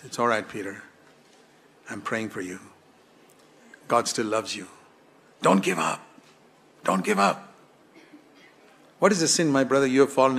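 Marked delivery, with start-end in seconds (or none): 0.0-7.5 tender reassurance. Pretend. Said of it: "He looked at him and said, with his eyes".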